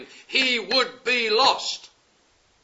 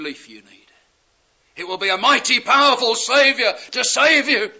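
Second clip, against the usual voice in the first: building preaching; 4 dB louder than usual. Real, not acted. Rising warning of judgment.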